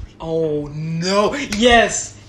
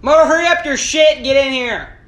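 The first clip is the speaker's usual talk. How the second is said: loud shout toward the other room; calling out; 5 semitones higher, 9 dB louder than usual. Real, not acted. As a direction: yell for him to hurry. Calling out to friend.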